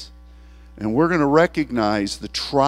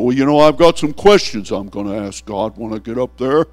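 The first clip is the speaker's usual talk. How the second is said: louder, smug know-it-all; smug questioner; 5 dB louder than usual. Pretend. People expecting to question God, a touch smug. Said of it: "what people think heaven's gonna be".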